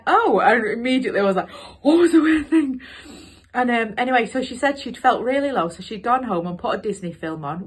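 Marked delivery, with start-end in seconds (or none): 0.1-0.4 a high, loud, eager oh; excited oh. Retold or imitated. Teacher hearing Lucy's weird news, eager high oh. 1.8-2.8 higher and louder, rushing to ask; can't wait to hear the answer; eager question. Retold or imitated. Teacher pressing Lucy for the weird thing, eager and loud.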